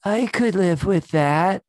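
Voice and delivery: slow, high, put-on quip voice; deadpan quip. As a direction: drawl it out in a silly voice. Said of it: "And Blair's like".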